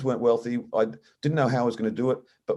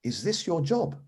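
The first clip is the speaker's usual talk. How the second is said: put-on innocent child; 6 semitones higher, 4 dB quieter than usual. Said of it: "really innocently".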